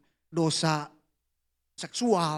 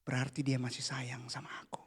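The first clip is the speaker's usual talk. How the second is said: hushed, breathy thanks to God; whispered prayer; 5 semitones lower, 13 dB quieter than usual. Retold or imitated. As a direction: pray it under your breath. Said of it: "Aku doa gini". (doa berbisik penuh syukur)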